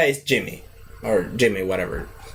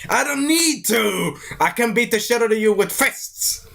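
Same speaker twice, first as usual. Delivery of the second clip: cocky retort; 6 semitones higher than usual. Retold or imitated. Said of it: "he's like".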